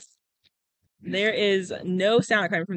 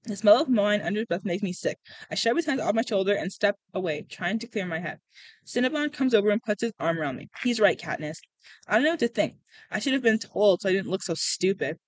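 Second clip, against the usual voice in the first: steady storytelling with lightly voiced dialogue; story narration. A narrator's reading. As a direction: read it like an audiobook, lightly acted. Reads a novel aloud.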